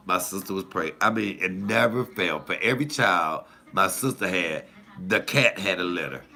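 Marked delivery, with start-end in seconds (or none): none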